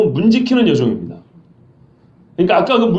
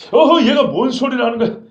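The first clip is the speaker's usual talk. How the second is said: sly brush-off, slightly higher; feigned innocence; 5 semitones higher than usual. Shown as a demonstration. Peter slyly brushes off the servant girl, feigning innocence. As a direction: play dumb with a chuckle. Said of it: "능청스럽게".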